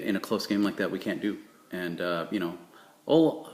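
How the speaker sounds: soft, mumbled press-conference quarterback voice; lightly mock a deflated quarterback owning his mistakes; Tony Romo impression. Vlogger imitates Tony Romo at a post-loss press conference, quiet and sheepish. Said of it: "here's my Tony Romo impersonation".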